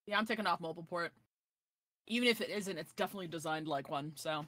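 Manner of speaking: talking while crunching chips. Real, not acted. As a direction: mouth full of chips. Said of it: "Sorry, I like eating chips two at a time".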